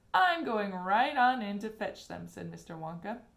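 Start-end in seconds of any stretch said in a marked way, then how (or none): 0.1-2.3 bold declaration. A narrator's reading. Wonka bold.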